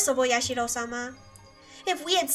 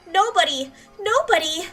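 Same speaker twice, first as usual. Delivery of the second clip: anguished cry; 4 semitones higher, 6 dB louder than usual. Acted. Breakdown over blame and curse.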